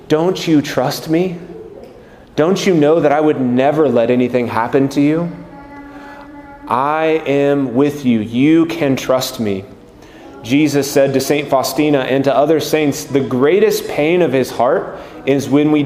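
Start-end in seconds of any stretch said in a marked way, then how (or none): 0.1-9.6 gentle reassurance. Retold or imitated. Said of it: "not a condemning or a shaming tone".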